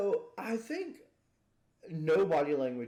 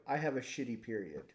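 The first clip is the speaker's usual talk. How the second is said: low, softer deadpan; 3 semitones lower, 6 dB quieter than usual. Acted. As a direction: say it dead in the eye. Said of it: "look at them dead in the eye and go".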